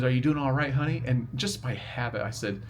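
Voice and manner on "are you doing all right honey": a light imitation of a sweet Georgia nurse, higher and louder; Southern nurse accent. Nurse greeting the speaker's mom, imitated in a mild Southern accent. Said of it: "every sentence ended with "honey".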